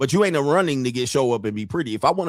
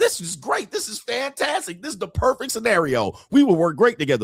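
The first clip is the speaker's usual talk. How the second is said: put-on thrilled, over-eager gushing in excited, high sing-song voice; 8 semitones higher than usual. Imitating a woman who thinks this is great: imitating her excited voice. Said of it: "She's like".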